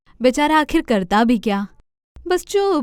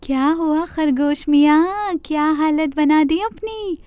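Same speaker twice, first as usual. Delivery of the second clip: a little higher, teasing deer; mocking deer; 4 semitones higher than usual. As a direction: gently gloat at the rabbit. Deer visits fallen rabbit.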